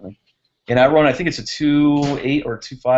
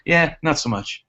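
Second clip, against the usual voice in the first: a lightly imitated shrug-off of quads, fall on "much"; mock unimpressed brush-off, a touch higher; dismissive stranger; 4 semitones higher than usual. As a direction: toss off "not so much" like a passing New Yorker who couldn't care less. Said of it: "That's exactly how he said it".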